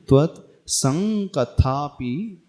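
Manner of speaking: त्वत् संकथापि slowly, with a long ng in सं; correct anusvara. Shown as a demonstration. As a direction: hold the nasal ng in संकथापि before क. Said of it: "ऐसा पढ़ेंगे".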